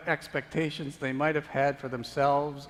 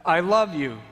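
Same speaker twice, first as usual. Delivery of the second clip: loud, higher I love you, falling at the end; impassioned cry; 4 semitones higher, 9 dB louder than usual. Acted. Jesus to the onlooker at the last spike, loud cry. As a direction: cry it out in pain.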